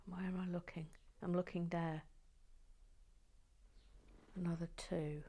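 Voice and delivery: unvoiced whisper to herself; hushed searching mutter. Real, not acted. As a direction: whisper as you search, barely audible. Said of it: "I might all have to be quiet".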